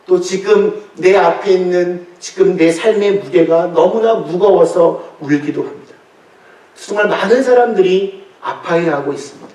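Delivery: ordinary delivery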